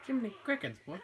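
high, loud exclamation; surprised. Real, not acted. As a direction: blurt it out in shock. Reacting to a huge attack.

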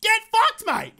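high, loud mock-Australian shout; hammed-up Australian outburst. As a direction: yell it in broad Australian. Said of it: "not the Australian".

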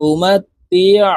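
slow উমাতিয়া ending in a squeeze from mid-throat; pressed throat ayn. Shown as a demonstration. Teacher showing where ayn comes from, pressed throat sound. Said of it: "হলকের মধ্যখান থেকে চাপ দিয়ে উচ্চারণ".

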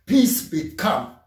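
calm the storm with a word; preacher voicing Jesus rebuking the storm; commanding Jesus. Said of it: "and he said".

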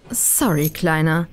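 lightly voiced panting menace; a touch of breathlessness on the words. A narrator's reading. Pursuer reaches the student at the door, mildly panting. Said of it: "keuchte Havering".

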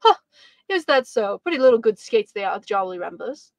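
mildly offhand and unimpressed; careless. Acted. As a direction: brush it off lightly. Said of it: "as he answered carelessly".

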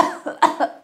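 dry, breathless acted cough; weak cough. Juliet on her sickbed, weak dry cough. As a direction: cough like a dying patient. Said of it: "Juliet coughed".

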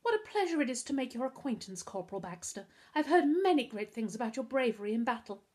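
put-on film-starlet American accent. A narrator's reading. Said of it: "said in an American accent".

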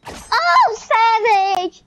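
high-pitched exclaimed "oh"; exclaimed jab. Real, not acted. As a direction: shout it out high, crowing over a jab. Mock cheer at a jab.

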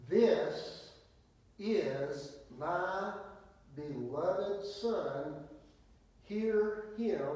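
loud, weighty pauses between phrases; slow, emphatic divine proclamation; booming exclamation. Acted. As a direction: thunder it out as God's command from the cloud. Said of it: "Exclamation point. That, that wasn't just a little".

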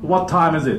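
firm, full-voiced English question; big clear voice, falling at the end; projected so all hear. Shown as a demonstration. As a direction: project it to the back of the room. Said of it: "って言わないと".

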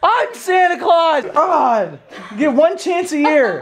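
indignant Santa. Acted. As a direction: play an offended Santa.

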